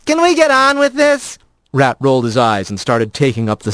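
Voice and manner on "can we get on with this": higher, exasperated; a rat losing patience; impatient rat. A narrator's reading.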